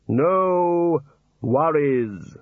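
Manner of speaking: Death's mock Aussie. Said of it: "Death mimics warder".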